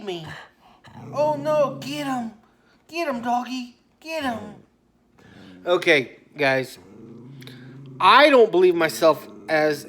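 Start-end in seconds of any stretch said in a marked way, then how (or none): 1.1-4.5 egging on dog. Real, not acted.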